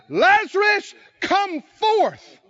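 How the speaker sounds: high, loud, slow call; commanding shout. Acted. The Father calling Lazarus from the grave, shouting. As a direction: bellow the name into the tomb.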